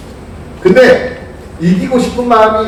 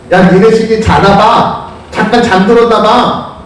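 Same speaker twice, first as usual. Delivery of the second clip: slow, higher-pitched acted teasing; mocking taunt; 4 semitones higher, slower than usual. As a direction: needle the rivals with mock helpfulness. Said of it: "막 이렇게 약 올리는 거야". (약 올리듯 조롱하는 말투)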